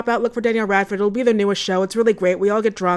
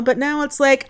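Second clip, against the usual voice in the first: normal talking voice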